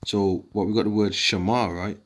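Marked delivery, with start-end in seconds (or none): 1.1-1.7 Shema said as "shuh-MAH"; pronunciation as written. Shown as a demonstration. Teacher showing the Hebrew word, Shema pronounced shuh-mah. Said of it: "the way you'd actually say it".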